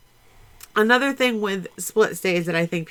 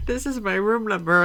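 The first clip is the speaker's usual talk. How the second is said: repeating it through giggles; mock it while laughing; giggly mimic; 2 semitones higher than usual. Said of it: "that just tickled me".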